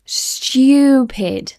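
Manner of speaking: STUPID as a high, drawn-out styoo-pid; British Y sound. Shown as a demonstration. Teacher repeating STUPID with an added Y. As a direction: lean on the Y in stupid. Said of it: "like a Y sound in between".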